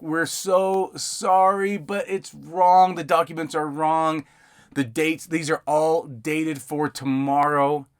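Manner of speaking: high, slow, exaggerated sorry voice; over-apologetic client. Client begging the notary to reprint, mock apologetic. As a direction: ham up a client pleading for a reprint. Client says documents are wrong.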